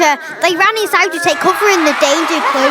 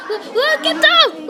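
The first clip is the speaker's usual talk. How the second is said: acted alarm; 11 semitones higher, slower than usual. Warning others to hide.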